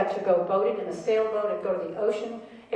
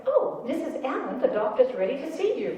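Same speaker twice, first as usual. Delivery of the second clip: higher, sweet nurse voice; soothing nurse; 4 semitones higher than usual. Retold or imitated. Nurses rushing out to fetch the agitated mother, sweetly. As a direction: coax her in kindly like a nurse.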